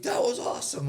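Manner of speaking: high, loud burst of excitement; excited exclamation. Retold or imitated. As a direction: exclaim it like a thrilled young guy. Young man thrilled after helping woman.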